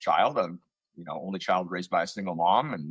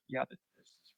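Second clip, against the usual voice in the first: hesitant, softer mock stammer; nervous; 5 semitones higher, 9 dB quieter than usual. Actor retelling a first commercial audition, acting nervous. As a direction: act out barely audible nerves, faltering. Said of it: "I was beyond nervous".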